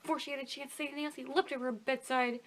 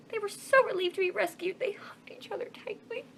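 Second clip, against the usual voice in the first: whisper; 8 semitones higher than usual. A narrator's reading. Narrator whispers relief.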